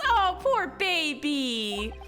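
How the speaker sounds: put-on slow, teasing "poor baby"; mock pity. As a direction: coo it slowly like mock pity. Mock sympathy for his defeat.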